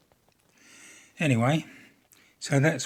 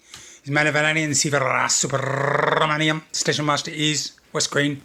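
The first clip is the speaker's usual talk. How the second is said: loud, proud station master introduction; alter ego voice; 3 semitones higher, 5 dB louder than usual. Acted. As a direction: announce yourself grandly as the station master. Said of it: "I think I need my alter ego".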